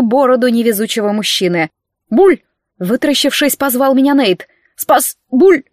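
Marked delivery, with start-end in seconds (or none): 2.1-2.4 drowning gurgle, high and loud; spluttering underwater gurgle; gurgling. Acted. Нейт захлёбывается в аквариуме. 4.8-5.6 high panicked gurgling call; choking plea; drowning cry for help. Acted. Нейт тонет, зовёт на помощь.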